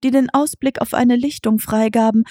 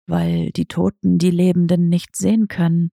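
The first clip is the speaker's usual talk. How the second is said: understated lower cat voice; tomcat Diego asking; 4 semitones lower than usual. Acted. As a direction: ask like a sly old tomcat.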